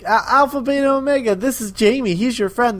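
coaxing introduction. Retold or imitated. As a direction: introduce them like a patient parent. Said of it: "the Doctor's just like".

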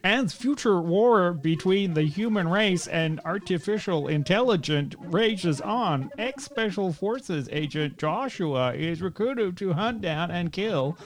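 slow, dramatic trailer read; movie trailer narration. Acted. Podcast host reading the film synopsis in a slow trailer voice. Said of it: "I'm doing it this way".

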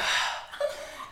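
heavy breath before a confession; mock-solemn sigh, all air; imitated deep breath. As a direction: draw a big breath as if steeling yourself. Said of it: "he takes a deep breath".

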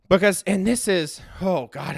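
breathless, gasping between words; winded mid-sentence, catching breath. Real, not acted. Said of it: "I'm getting out of breath".

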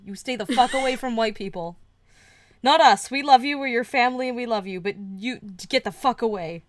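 a hint of a loving father turning hostile; lightly voiced tender dad, then a snarl; mock doting father. Kellogg voiced talking to his adopted son, loving then hostile.

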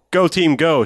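high, loud mock team cheer. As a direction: imitate a sudden convert rooting for the team. Quoting new convert cheering the team.

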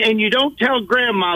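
imitated scolding grandmother. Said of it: "I remember my grandmother, she was like that".

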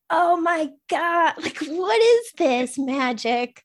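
slow, high and loud, stunned with delight; amazed. Retold or imitated. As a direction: gush like you just found magic. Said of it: "being like".

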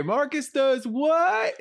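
slow, high wrestler shout; Hulk Hogan voice. Retold or imitated. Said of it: "I do like Hulk Hogan".

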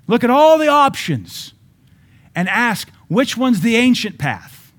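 high, loud shouted proclamation; loud prophetic preaching, slowing at the end; prophet's cry. Acted. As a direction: thunder it like a prophet to the people. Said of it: "So the prophet tells the people".

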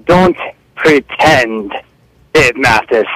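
angry mock Italian mogul; bossy prank-call villain voice; Giuseppe Luongo. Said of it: "This is the Giuseppe Luongo".

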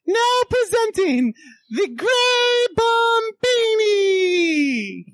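high, long-drawn ringing introduction; stage announcer. Acted. Assistant presenting the magician to the audience, grand high announcer voice. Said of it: "And I'm gonna say".

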